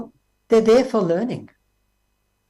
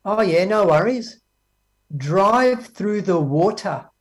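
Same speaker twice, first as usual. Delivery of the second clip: slow, lazy no-worries drawl; mock laid-back tradesman voice; careless engineer; slower than usual. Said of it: "Does the engineer say this?".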